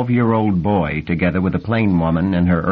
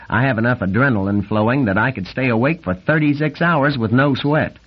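excited; 3 semitones higher than usual. Acted. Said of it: "excited nasal voice".

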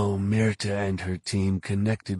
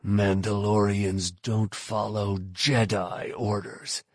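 slow words through clenched teeth; slower than usual. Acted. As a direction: grind it out, jaw tight. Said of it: "speaking through clenched teeth".

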